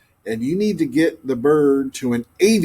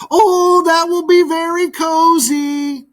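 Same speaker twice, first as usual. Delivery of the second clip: much higher, breezy chirp; high bird voice; 4 dB louder than usual. Acted. Grackle hurrying off, breezy and high. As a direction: toss it over your shoulder, carefree.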